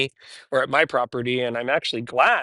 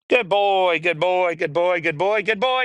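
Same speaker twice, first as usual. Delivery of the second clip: high, bright praise for the dog; excited praise; 5 semitones higher, slower than usual. Real, not acted. Trainer praising the puppy on the stairs, high and excited.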